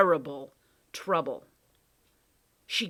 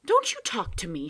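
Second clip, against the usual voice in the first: sharp loud retort; snapping; 4 semitones higher, 5 dB louder than usual. Acted. Lindy snaps at the cat, angry. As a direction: cut him off. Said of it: "she snapped".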